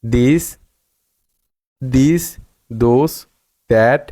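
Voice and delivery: "this, those, that" begun with দ, each lifted at the end. Shown as a demonstration. Teacher repeating the rule's examples, th as d in "this, those, that". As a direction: list drill, voiced d for th in "This, those, that". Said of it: "দয়ের মতো উচ্চারণ করতে".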